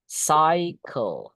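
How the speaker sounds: CYCLE said "SAI-kel"; model pronunciation. Shown as a demonstration. Teacher breaking the word up, CYCLE as "sai-kel". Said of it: "Ini, guys, bacanya".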